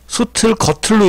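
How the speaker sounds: "소틀, 거틀로" with aspirated t carried over; linked t sound. Shown as a demonstration. Teacher giving correct readings, "소틀, 거틀로" with t sounds. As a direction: demonstrate "소틀, 거틀로" as soteul, geoteullo. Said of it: "읽어야 돼요".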